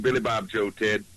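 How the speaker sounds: mock Texan accent; Texas drawl. Guest riffing on Billy Bob, Texas drawl. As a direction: play along in a put-on Texas drawl. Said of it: "a Texas drawl".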